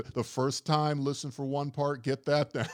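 plaintive. Retold or imitated. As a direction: coax them through it, imitating a plaintive proctor. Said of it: "like, plaintive".

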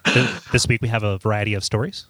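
lightly voiced public radio host; a hint of a public radio host cadence; Ira Glass. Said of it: "Do you got an Ira Glass?".

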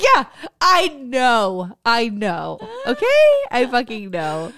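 slow, drawn-out exasperated I know. Retold or imitated. Mom fed up with daughter's teasing, exasperated. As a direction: drag it out, then spike okay.

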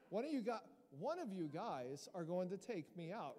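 mock-proper, neatly enunciated line. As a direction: say it very properly, no mob voice. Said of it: "I'm just imagining this and very proper".

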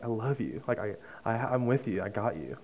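softly retold words of comfort; tender reassurance. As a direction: quote God's comfort gently and quietly.

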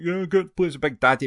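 put-on lightly done American accent, teasing a friend; the speaker in an American accent. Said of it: "I can't do my American accent that well".

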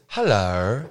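mocking a friend's Australian Hello. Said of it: "he says".

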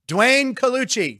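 slow, drawn-out name like a host's call; drawn-out intro. Acted. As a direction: stretch the name out like an announcer.

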